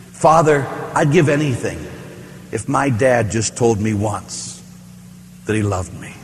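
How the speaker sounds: a hint of a boy choking back tears; retold sobbing boy. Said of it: "sobbing through his tears".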